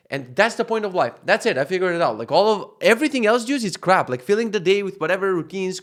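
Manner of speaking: fervent declaration that she is the point of life; excited. Real, not acted. Excited rant about fatherhood.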